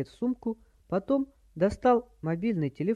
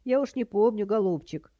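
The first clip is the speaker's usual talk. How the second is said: high-pitched doddery granny; high, fussy old-lady voice; batty old woman; 6 semitones higher, 3 dB louder than usual. A narrator's reading. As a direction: stall sweetly as a dotty old lady. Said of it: "прекрасно изобразила полоумную старуху".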